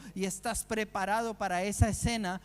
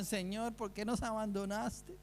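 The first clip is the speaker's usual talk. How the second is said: murmured complaint; 6 dB quieter than usual. Pretend. Prisoners murmur against God in the cell, soft complaint. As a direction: murmur the complaint under your breath.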